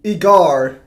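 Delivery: "Igar" ending on a hard R. Shown as a demonstration. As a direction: say "Igar" with the final R fully sounded. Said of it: "put it with a hard R".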